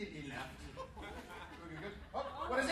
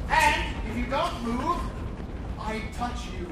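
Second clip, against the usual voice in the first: mock threat; 8 dB louder, slower than usual.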